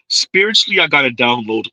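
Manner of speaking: mock spiritual download; mocking imitation. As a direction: repeat it with sarcastic awe. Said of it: "Oh man".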